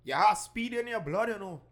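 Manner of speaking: loud, high, drawn-out grandfatherly scolding; grandfather's admonition. Acted. Young man quoting his grandfather's warning, loud high grandfather voice. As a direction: call it out slowly and high, like a grandfather warning you. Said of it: "my grandfather always used to tell me".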